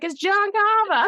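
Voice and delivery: high Boston waitress voice, Carver as Carvah; Boston accent. Retold or imitated. Imitating the waitress Lizzie in a Boston accent. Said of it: "Lizzie, the waitress, how she's like".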